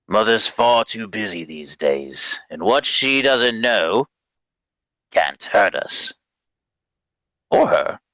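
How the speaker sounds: put-on grunting young man. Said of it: "and then he grunts".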